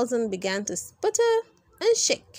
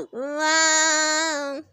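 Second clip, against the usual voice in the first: amazed wow; 4 semitones higher than usual. Acted. Gasp of amazement.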